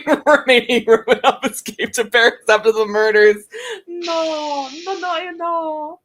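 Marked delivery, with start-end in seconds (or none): 3.9-6.0 laughing protest. Real, not acted. Mock dismay laughing.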